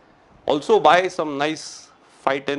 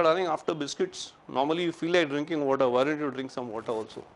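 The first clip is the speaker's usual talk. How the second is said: gentle coaxing; 5 dB quieter than usual. Pretend. Sweetly coaxing wife.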